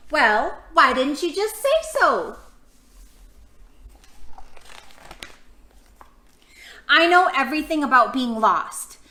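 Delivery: loud, high, chattering know-it-all; bossy little expert rattling on; eager know-it-all. Acted. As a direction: show off everything you know, eagerly. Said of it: "she said".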